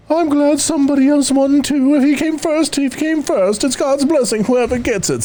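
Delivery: high, folksy Minnesota guy. Acted. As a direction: read it in a sweet Minnesota voice. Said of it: "Those are all appropriate voices".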